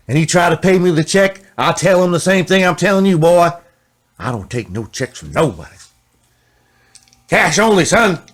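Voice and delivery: builds to a loud, high lecture; stern seller lecture. Retold or imitated. The seller lecturing a musician about cash, loud and rising. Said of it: "seller lectures a musician".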